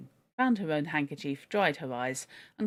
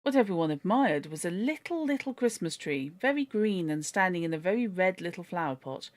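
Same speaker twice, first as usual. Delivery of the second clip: steady, lively storybook reading; story narration. A narrator's reading. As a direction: read it like a children's classic.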